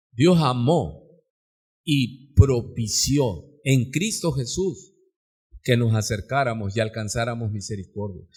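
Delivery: measured, reverent explanation; solemn preaching. Real, not acted. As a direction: spell out the doctrine gravely, phrase by phrase. Preaches slowly and low.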